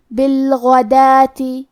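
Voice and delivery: بالغداتی with a thick, full غ and a long alif on دا; slow tafkhim غ; heavy ghain. Shown as a demonstration. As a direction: slowly recite بالغداتی, heavy غ, stretched دا. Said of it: "موٹی آواز میں پڑھیں گے".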